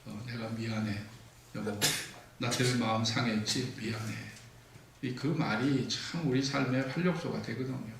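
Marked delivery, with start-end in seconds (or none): 0.0-4.1 sincere apology. Shown as a demonstration. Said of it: "사과하세요".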